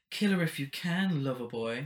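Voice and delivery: lightly voiced vampy taunt; a hint of sultry Jessica Rabbit; sassy drag queen. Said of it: "another little read".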